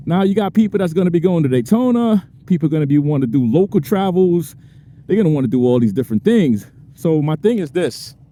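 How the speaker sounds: breathless talk between breaths; talking while short of breath. Real, not acted. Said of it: "Man, I'm out of breath".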